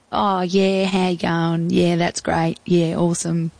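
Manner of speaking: light, laid-back Australian surfer accent, lightly voiced; a casual Aussie surfy guy saying hi, only lightly put on; Aussie surfer dude. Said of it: "quintessential Australian surfy".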